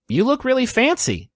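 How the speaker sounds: smiling compliment from a woman; adult woman. Acted. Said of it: "she smiles and she says".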